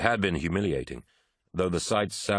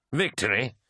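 higher, rising incredulous echo; mocking disbelief; 6 semitones higher than usual. A narrator's reading. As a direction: throw VICTORY back as a scoffing question. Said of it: "laughed Eidolon".

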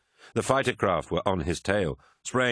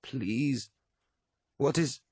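moaning plea; 6 semitones higher, much slower than usual. A narrator's reading. Mercedes begging after the horrific vision, moaning. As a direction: plead in a high moan, breaking off. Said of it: "Mercedes was moaning".

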